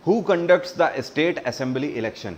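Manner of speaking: reading the question very slowly, word by word; slow quiz read. Shown as a demonstration. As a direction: spell out the question slowly for the class. Quiz host reads question aloud. (प्रश्न को बहुत धीरे-धीरे पढ़ना)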